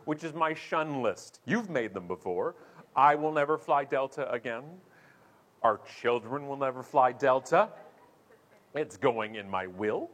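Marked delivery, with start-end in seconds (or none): 3.0-10.1 mock vow. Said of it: "jump to stage twenty of Canadian anger".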